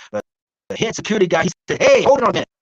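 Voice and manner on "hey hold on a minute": mock guard's louder, higher call; acted calling out. Security guard stopping the visiting doctor, acted calling out. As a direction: halt someone with a raised voice, imitated.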